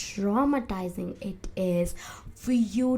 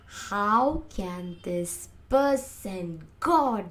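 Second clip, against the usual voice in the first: slow, measured mock outrage; acted anger; slower than usual. Acting out anger at a betrayer, slow indignant disbelief. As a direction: draw out each word in contained anger.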